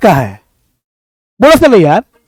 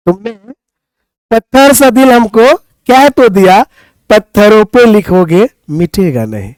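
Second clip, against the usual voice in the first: poem recital. Acted. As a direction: recite it like a couplet to the class. Recites a shayari to class.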